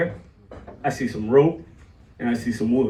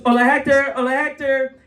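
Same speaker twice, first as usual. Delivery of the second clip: lightly voiced old lady, higher pitched; old lady calling out; 5 semitones higher than usual. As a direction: call out a greeting like an old lady. Old lady calls him again.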